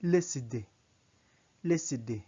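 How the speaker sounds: leside said as one word, lee-side; simplified liaison. Shown as a demonstration. Teacher giving learners an easier spelling, run-together pronunciation. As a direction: blend leside into a single word.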